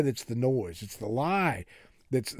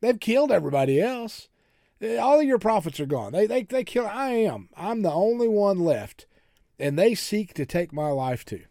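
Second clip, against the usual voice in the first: mock woe-is-me lament; hammed-up self-pity, pitched high then easing down; Elijah; 6 semitones higher, 4 dB louder than usual. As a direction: complain to God, high and loud. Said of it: "What a woe is me moment".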